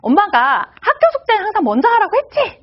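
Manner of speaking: mother scolding her child about homework, mock yell. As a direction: raise your voice like a fed-up mom. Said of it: "이렇게 소리를 지르실 수도 있어요".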